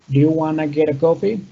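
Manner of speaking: "Do you wanna get a coffee?" run together quickly, rising at the end; quick, linked pronunciation. Shown as a demonstration. Teacher modelling an informal coffee invitation, quick linked pronunciation. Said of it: "lo trato de hacer muy rápido".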